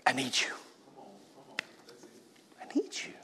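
second I need you whispered, breathy and faint; desperate hushed plea; pleading whisper. Retold or imitated. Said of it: "all you can do is go".

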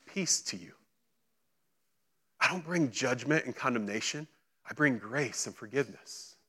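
tender and quiet, as acted forgiveness; gentle reassurance. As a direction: hush it right down to offer peace. Jesus gently reassures, against imagined reckoning.

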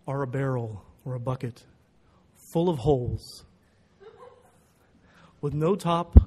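ponderous riddle-giver with long pauses; Dutch professor's big slow voice. Retold or imitated. Professor posing a bizarre riddle to his student, big and slow. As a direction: pronounce it weightily, piece by piece, heavily on key words. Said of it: "big, slow voice".

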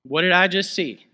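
loud amazed disbelief; stunned. Pretend. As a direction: gasp out what you just saw. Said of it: "That's what I'd be thinking".

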